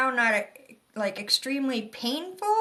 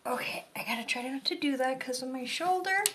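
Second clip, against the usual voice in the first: whispering; 5 dB quieter, faster than usual. Real, not acted. Aside to herself while moving.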